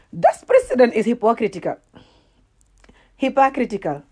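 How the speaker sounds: "hypocritical" said deliberately, then repeated alone with a falling end; careful pronunciation. Shown as a demonstration. Retrying the word after failing to pronounce it, determined. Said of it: "to pronounce the word correctly".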